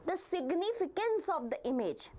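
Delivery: "significance" stressed as the key word. Real, not acted. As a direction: lean on the word "significance" to single it out. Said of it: "putting stress on the word significance".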